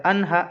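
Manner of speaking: "अन हा" with a plain n, no nasal hold; clear izhar n. Shown as a demonstration. Teacher shows reading before ha, clear izhar n. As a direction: finish the n in "अन" before "हा". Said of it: "ऐसे पढ़ते".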